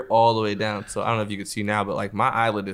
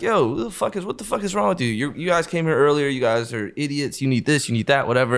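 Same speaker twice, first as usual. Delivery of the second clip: much higher, outraged squawk of the other man; imitating angry guy; 4 semitones higher than usual. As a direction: play the furious guy, pitched way up.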